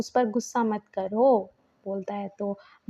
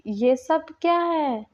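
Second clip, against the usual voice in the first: shocked; 5 semitones higher, slower than usual. Retold or imitated. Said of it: "ये सब देखकर वो शॉक्ड".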